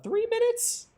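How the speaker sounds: high, drawn-out disbelief; incredulous. Real, not acted. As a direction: sound outraged at the timer. Repeating disbelief at time limit.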